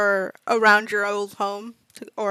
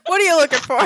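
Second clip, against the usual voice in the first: shady dealer voice; 5 semitones higher, 4 dB louder, faster than usual. Acted. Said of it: "slides over to you like a dealer".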